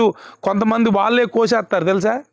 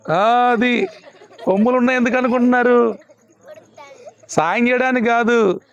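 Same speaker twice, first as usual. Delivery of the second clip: laughing; 3 semitones higher than usual. Real, not acted. Preacher laughs mocking horns.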